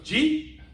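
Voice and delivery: "Gee" as one rising syllable for did you eat; slurred shorthand. Retold or imitated. Captain asking a colleague about lunch, slurred shorthand. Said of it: "we can shorten things".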